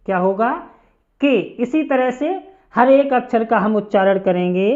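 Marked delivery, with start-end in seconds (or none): 1.2-1.4 के kept short for learners; short-i pronunciation. Shown as a demonstration. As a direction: sound out के as one brief syllable. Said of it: "छोटी ई की मात्रा क पे लगाएंगे तो इसका उच्चारण". (के, स्वर बिना खींचे)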